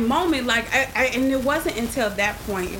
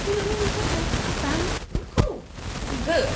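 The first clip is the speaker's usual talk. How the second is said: fake fine; 9 semitones higher than usual. Pretending to be fine to dad.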